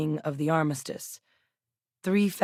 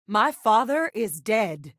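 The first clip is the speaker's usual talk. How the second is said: slow and higher, each word weighted; grave insistence; 4 semitones higher, slower than usual. Acted. Telling someone her father is dead, slow insistence. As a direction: spell it out slowly, voice raised in pitch. Acted statement of father's death.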